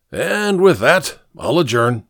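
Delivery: bow out with mild tipsy pomp; lightly theatrical farewell; grandiose old drunkard. Acted. Drunkard grandly takes his leave.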